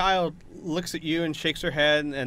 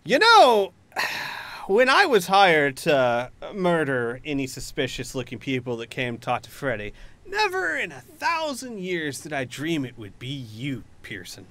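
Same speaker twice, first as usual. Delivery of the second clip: menacing villain Neelix. Acted. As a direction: toy with cornered prey, punching the openers.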